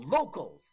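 "locals" with a loud, stressed final s; stress on plural. Shown as a demonstration. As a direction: lean on the S in "locals". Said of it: "now that's plural".

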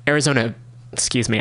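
burp slipping out mid-word. Real, not acted. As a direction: talk through a burp. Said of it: "I'm burping a lot".

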